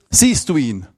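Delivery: a hint of old grandma asking; grandma asking in mild Swabian; lightly voiced grandma. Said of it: "was meine Oma auf Schwäbisch gesagt hat".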